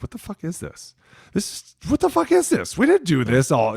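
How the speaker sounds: high furious mock rant, rising to a yell; hammed-up coach tirade; imitating coach yelling. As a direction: rip into the player like an angry coach.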